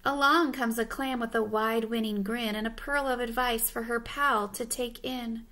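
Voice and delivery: measured, rhythmic storybook reading; storybook narrator; picture-book narration. Acted. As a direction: read to children, pausing for the rhyme. Reads picture book aloud.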